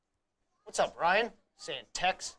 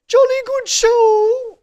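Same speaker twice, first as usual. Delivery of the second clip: very high, slow, loud British colonel; pompous sputtering colonel; 15 dB louder, much slower than usual. Pretend. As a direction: puff it out like a pompous old officer. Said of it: "I'll do one of these impressions".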